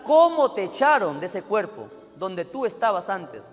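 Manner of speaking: acted exorcist's slow, forceful command. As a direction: order the demon out word by deliberate word. Minister commands demon in God's name.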